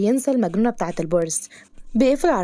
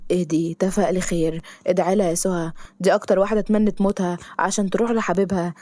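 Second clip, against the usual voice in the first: sad. Acted. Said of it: "حسن بحزن".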